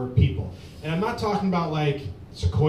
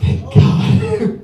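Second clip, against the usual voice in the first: high squeaky Thank God; 10 dB louder than usual. Shown as a demonstration. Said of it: "no, it's not".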